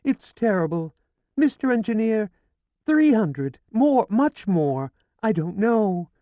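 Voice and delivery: high, loud keening grief; wailing lament. A narrator's reading. Widow wailing over her dead husband, grieving. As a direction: wail over the body. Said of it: "She pleaded".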